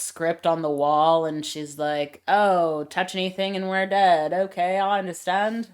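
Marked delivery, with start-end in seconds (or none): 2.3-5.7 put-on light Australian accent on Lara's lines; a hint of Australian twang, meant to be British. Lara reading the wall warning, lightly Australian accent. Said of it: "I don't know why I've got an Australian accent".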